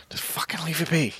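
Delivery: exasperated insistence. Real, not acted. Pleading against a Disney remake, exasperated insistence. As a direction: raise the pitch and insist.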